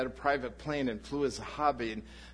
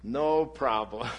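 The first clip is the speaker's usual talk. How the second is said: a drawn-out, louder, carefree no problem; carefree optimist; 6 dB louder, slower than usual. Retold or imitated. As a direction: toss it off like nothing could go wrong. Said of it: "I'm the eternal optimist".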